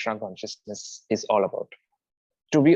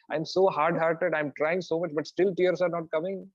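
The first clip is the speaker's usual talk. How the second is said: mild lament; 4 semitones higher than usual. Retold or imitated. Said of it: "thinking about our pathetic situation".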